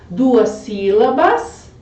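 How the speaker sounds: Duas sílabas said slowly, leaning on sílabas; syllables drawn out. Shown as a demonstration. Teacher stretching Duas sílabas for the students. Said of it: "A última é mais forte".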